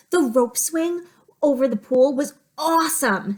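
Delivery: put-on a touch of an excited kid; lightly voiced kid. Teacher voicing J T for her class, as a lightly voiced excited kid. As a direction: lift it into a gently excited schoolkid voice. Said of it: "Here's the quotation marks again".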